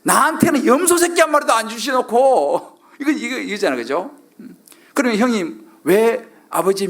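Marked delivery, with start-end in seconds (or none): 0.0-2.8 high-pitched mock grievance; resentful outburst. Elder son complaining to father about the goat, acted resentment. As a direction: let the elder brother's true feelings out. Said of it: "본심이 나오는 거예요".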